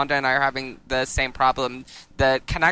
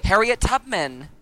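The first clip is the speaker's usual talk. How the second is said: laughing; 5 semitones higher, slower than usual. Real, not acted. Laughing at the pun.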